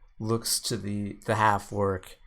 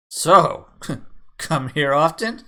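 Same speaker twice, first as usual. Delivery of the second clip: half-orc pickup line; 7 semitones higher, 10 dB louder than usual. Acted. Half-orc flirts at the bar.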